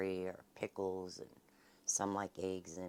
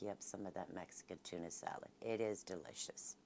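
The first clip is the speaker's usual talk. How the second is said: whispering; 3 semitones lower, 12 dB quieter than usual. Real, not acted. Soft closing aside.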